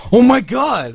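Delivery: high, loud mock freak-out; excited outburst. Guy at the club freaking out beside him, high excited yelp. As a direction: burst out like a fan who just found something.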